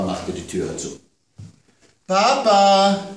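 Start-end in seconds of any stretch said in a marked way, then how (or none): 2.1-3.1 much higher, loud call; girl calling father back. A narrator's reading. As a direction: yell for papa. Child calls out.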